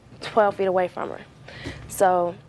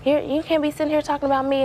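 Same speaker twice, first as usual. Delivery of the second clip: higher, sharp mock scolding; a retold boss barking orders, pitched up; retold angry order; 7 semitones higher than usual. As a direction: imitate the manager snapping at her. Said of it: "she runs back".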